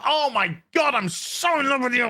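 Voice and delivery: lightly hammed-up declaration of love; mock lovesick gushing. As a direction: gush sarcastically, dissolving into babble. Mocks the characters' love declaration.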